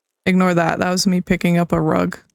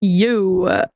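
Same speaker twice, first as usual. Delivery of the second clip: put-on valley girl. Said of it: "Became a valley girl all of a sudden".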